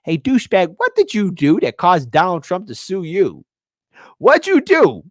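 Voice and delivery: loud mock mob boss demand; Tony Soprano. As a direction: lean in hard like a mob boss. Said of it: "Tony's like".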